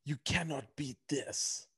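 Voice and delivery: slow, deliberate quoting of a famous man; slow quote. Retold or imitated. Quoting a famous man's remark to his co-host, slowly. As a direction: drag each word out slowly. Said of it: "who was that famous guy who said".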